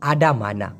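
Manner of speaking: "আডা মানা" low, with open a endings; basic correct form. Shown as a demonstration. Teacher giving the original form, correct pronunciation. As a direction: drop low and say "আডা মানা" with full a vowels. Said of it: "মূলত কি?".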